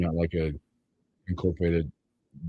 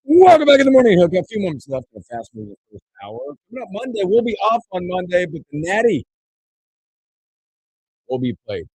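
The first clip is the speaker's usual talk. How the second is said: radio host intro; 10 semitones higher, 7 dB louder than usual. Acted. Host returns from break.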